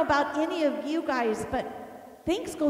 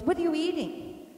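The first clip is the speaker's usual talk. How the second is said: higher-pitched retold husband; husband questioning; 5 semitones higher than usual. Husband to wife at the fridge, questioning. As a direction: lightly mimic a husband's question. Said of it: "he goes".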